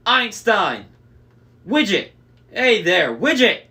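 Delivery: high, loud giant cooing over his sheep; booming Cyclops. A narrator's reading. Cyclops greets his sheep by name, loud and fond. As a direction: call each sheep like a beloved pet, loudly.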